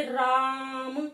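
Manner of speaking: राम with the आ held long on one level note; prolonged calling vowel. Shown as a demonstration. Teacher showing how one calls someone, drawn-out राम. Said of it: "कोई लंबी ध्वनि लगा के किसी को पुकारते".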